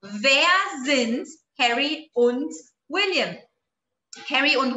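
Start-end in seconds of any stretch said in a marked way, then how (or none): 0.0-3.4 W-question tune, dropping on "William"; falling question intonation. Shown as a demonstration. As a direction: end the question on a fall at "William". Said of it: "no W-Fragen a entonação cai".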